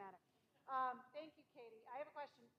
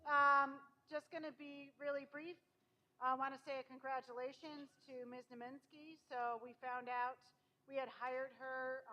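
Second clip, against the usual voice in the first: teacher voice. Real, not acted. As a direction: project to the back of the room. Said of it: "so I'm gonna use my teacher voice".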